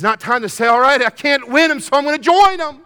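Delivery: loud, high, driving preacher's cry; preaching at full force. Acted. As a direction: build it up and hammer it out. Preacher mocks quitter's shout.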